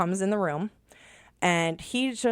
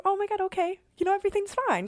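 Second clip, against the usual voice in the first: retold relief; much faster than usual. Son alive, sudden relief.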